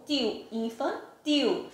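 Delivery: final L of "infantil" glides into a U, "infantiu". Shown as a demonstration. Teacher showing pupils the final sound, "infantil" ending as "tiu". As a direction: slowly round off "tio, infantil" on a U sound. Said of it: "eu pronunciei o L como se fosse um U".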